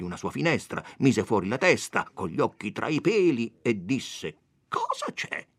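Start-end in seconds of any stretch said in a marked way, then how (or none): 4.7-5.5 sexton's call. Acted. Sexton calls out from window.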